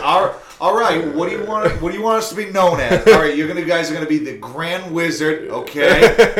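high, loud, hammed-up boss announcing ranks; mock leader voice. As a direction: play the pompous cult leader. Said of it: "Be like".

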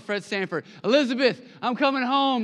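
Fred Sanford. Retold or imitated. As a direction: clutch your chest and wail, hammed-up. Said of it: "younger generation don't know about Fred Sanford".

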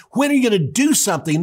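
high, fast exasperated outburst; exploding demand. Acted. Frustrated mother pressing Jesus to act, exploding. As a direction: fire it at him, fed up. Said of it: "She exploded on him".

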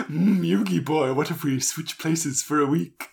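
lightly voiced cartoon villain; playful mock-villain purr; Maximilian Pegasus. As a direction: imitate a posh, theatrical schemer. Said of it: "Maximilian Pegasus".

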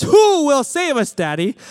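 put-on a toddler calling her father to save her, high and loud; little daughter's plea. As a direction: play the small girl wailing for rescue. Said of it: "when she says".

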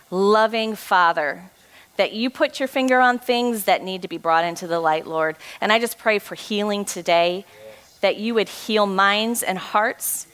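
earnest spoken prayer to God. Acted. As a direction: pray for healing over the room. Leads a closing prayer.

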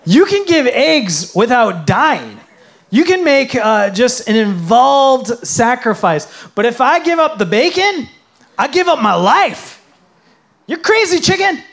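high, loud squeal of a pig who won't be bacon; high incredulous pig voice; indignant pig. Acted. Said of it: "And the pig says".

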